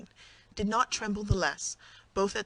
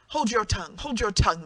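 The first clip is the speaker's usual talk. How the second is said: alarmed hushing; 3 semitones higher, 5 dB louder than usual. Acted. Husband fears being overheard.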